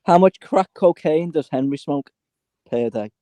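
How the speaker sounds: carefully enunciated question; pronounced clearly. Shown as a demonstration. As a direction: say each word distinctly for a machine. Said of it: "pronounce it clearly".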